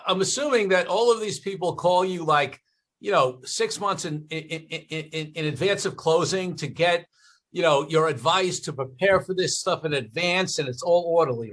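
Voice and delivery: lightly sarcastic, feigning innocent assumption. Real, not acted. Interviewer teasing consultant about clients calling well ahead, sarcastic. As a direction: lay on gentle sarcasm, a little lifted. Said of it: "I can hear the sarcasm in your voice".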